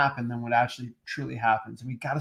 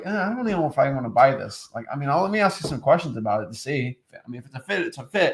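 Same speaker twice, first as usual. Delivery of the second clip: casual, noncommittal. Shown as a demonstration. Buyer chats with a seller, casual and unpushy. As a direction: take it or leave it, no selling. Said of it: "when I have a regular conversation with them".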